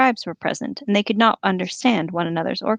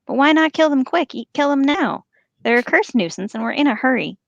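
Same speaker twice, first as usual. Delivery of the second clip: orc voice; 6 semitones higher than usual. Acted. Orc arguing to kill prisoners.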